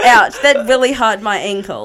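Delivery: laughing New Zealand accent demo. Shown as a demonstration. Showing friends a good New Zealand accent, amused. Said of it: "I do a good New Zealand accent".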